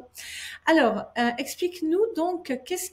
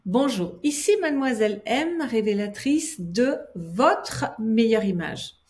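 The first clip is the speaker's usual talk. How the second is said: show intro. Acted. Presenter opens her show.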